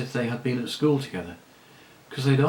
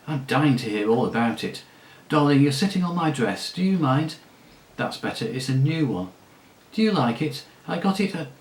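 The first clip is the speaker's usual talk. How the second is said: chattering lady; 3 semitones higher than usual. Acted. La Saraline chattering.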